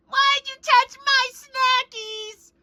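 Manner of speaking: put-on slow, childish complaint; childish whine. Whining over touched snacks, lightly childish voice. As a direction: drag it out like a little kid. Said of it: "say it like you're a frickin' child".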